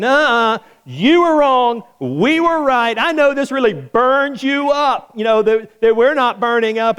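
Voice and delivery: taunting, high and pleased with themselves; mock gloating. Men in the furnace tease the king, cheeky gloat. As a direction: rub it in playfully. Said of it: "they're in there going".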